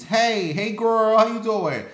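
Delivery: high, loud mock greeting; hammed-up screeching neighbor hello; a loud, high-pitched mimic of the neighbor's eager greeting; imitating crazy lady. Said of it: "she still screams".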